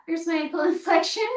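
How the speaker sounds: quick, amused, laughing mid-word. Real, not acted. Instructor repeats her demo to viewers, laughing. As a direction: laugh through it as you say it again. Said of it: "Oh, look at that".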